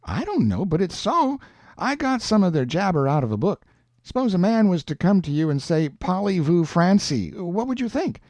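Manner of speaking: lightly voiced Huck, eager to prove it; a hint of a boy explaining what he has learned. Huck putting a French test to Jim, lightly voiced and lively.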